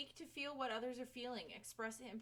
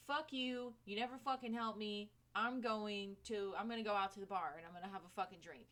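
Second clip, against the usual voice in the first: mock angry wife. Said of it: "she's fucking mad as fuck".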